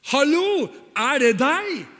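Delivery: high, loud, thrilled hallo; excited Peter. Acted. Peter calling to Jesus on the water, thrilled and high. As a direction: call out like an eager kid. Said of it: "altså".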